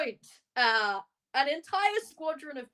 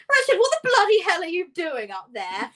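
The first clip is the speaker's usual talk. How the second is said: loud, higher exasperated yell at Richard; angry shout; 7 semitones higher, 8 dB louder than usual. Acted. Cohorts yelling up at Richard on stage, loud and exasperated. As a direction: bark it up at the stage.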